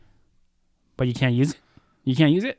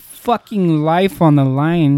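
mock heroic announcer; 4 semitones higher, 6 dB louder, slower than usual. Mock-heroic praise of Hugh.

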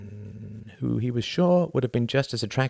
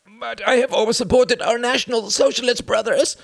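much higher, louder pleading cry; desperate cry; 6 dB louder than usual. A narrator's reading. A wounded man begs his captors, high desperate cry. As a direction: cry out in agony. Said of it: "cried the voice".

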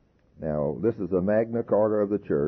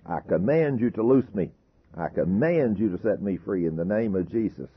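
commanding rebuke; 2 semitones higher than usual. Shown as a demonstration. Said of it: "Speak to it like you're speaking to a devil".

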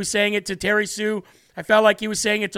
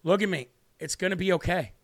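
soft, understated, heartfelt reassurance; quietly sincere, falling softer at the end; from the heart; 2 semitones lower, 5 dB quieter than usual. Retold or imitated. Host retelling words said to those boys, soft and heartfelt. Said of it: "a statement from the heart".

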